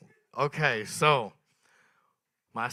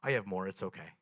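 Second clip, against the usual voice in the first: 1 calm sister. Retold or imitated. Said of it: "in the calmest way possible".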